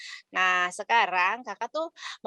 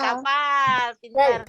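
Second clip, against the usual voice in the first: excited praise; 4 dB louder, slower than usual. Real, not acted. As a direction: shout out the praise. Praising kids' correct answer.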